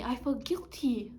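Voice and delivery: whispered slow confession; guilty whisper. Acted. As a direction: breathe it out like a guilty secret. Inner guilty thought.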